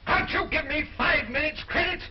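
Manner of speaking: exasperated. Acted. Losing king to his opponent over payment, exasperated. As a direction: burst out indignantly at being pressed.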